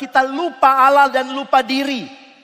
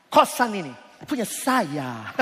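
laughing through it; 4 semitones lower, 5 dB quieter, slower than usual. Pretend. Punchline said laughing.

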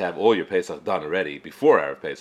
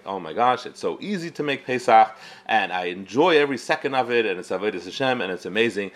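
mock gushing enthusiasm; 3 semitones higher than usual. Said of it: "if someone talks like that".

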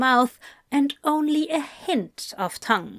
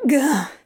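short, helpless "gah"; strangled gah; 3 semitones higher, 4 dB louder than usual. A narrator's reading. Crowley after an earlobe nip, helpless exclamation. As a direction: blurt a wordless, overwhelmed noise. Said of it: "is all Crowley can manage".

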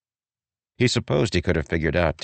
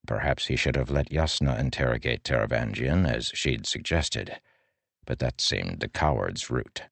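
usual speaking voice

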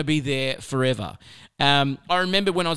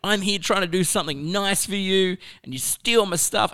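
higher-pitched indignant outburst, reliving it; retold anger; 6 semitones higher than usual. Recalling his rant at students who robbed his car, higher indignant voice. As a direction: replay the outrage at the students. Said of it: "I was so angry 'cause I was like".

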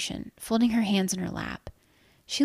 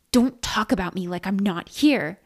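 mild mock scream; lightly acted angry outburst; near-scream; 4 dB louder than usual. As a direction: scold with a restrained scream. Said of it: "the woman practically screamed".

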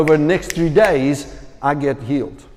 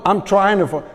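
hesitant uncertainty; 4 semitones higher than usual. Shown as a demonstration. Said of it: "You hear the difference?".

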